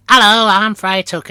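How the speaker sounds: high, loud, drawn-out panto voice; squeaky comic stage introduction; Friar Tuck. Retold or imitated. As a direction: sing out a silly hello in character. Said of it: "I was hoping you'd do your voice".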